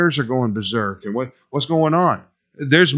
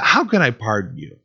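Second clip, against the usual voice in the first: pleading, open offer. Shown as a demonstration. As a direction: ask it as a sincere, inviting question. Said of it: "I think it's more".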